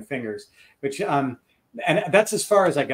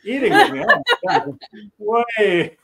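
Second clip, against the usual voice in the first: high, louder, fast mock outrage; 9 semitones higher, 6 dB louder than usual. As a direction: squeal it as a teasing protest. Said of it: "And I said".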